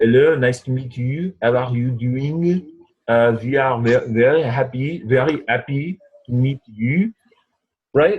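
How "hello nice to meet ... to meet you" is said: exaggerated, stupid-sounding French accent. Showing how practicing the accent teaches the sounds: stupid french accent. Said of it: "practicing that stupid accent".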